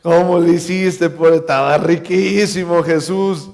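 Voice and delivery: drawn-out, wheedling imitation; lightly voiced mischief-maker. Mischievous guest to Jesus about the wine, mock wheedling. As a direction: playfully coax out the secret, stretching words. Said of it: "algún otro travieso".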